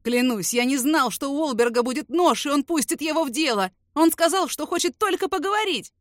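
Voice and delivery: terrified snitch begging, near sobbing; sobbing plea. Acted. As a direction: beg for your life through tears. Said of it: "Захлебывается плачем Фриман".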